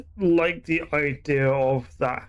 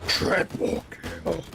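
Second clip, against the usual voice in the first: slow, drawn-out announcer call; 3 semitones higher, 3 dB quieter, much slower than usual. Shown as a demonstration. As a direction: boom it out like an arena announcer. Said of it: "I could sound like an Unreal announcer".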